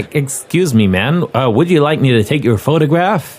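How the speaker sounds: lightly put-on generic American accent; a hint of a vague international accent; generic international male. Photographer offers passer-by a picture, lightly put-on American accent. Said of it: "generic international male accent".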